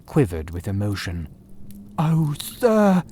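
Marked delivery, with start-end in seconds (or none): 2.0-3.0 breathless whispered plea; a shaken man begging in a hushed voice; frightened cry. A narrator's reading. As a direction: gasp it out, barely voiced. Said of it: "he cried".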